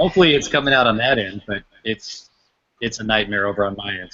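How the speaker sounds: echoey, as if in a big empty hall. Real, not acted. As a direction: voice bouncing around a big room. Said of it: "you sound very echoey".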